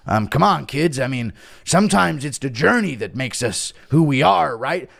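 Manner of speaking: Chandler impression. Chandler at home counselling his kids, mock-earnest. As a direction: do a father's earnest pep talk, mocking. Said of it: "Chandler at home".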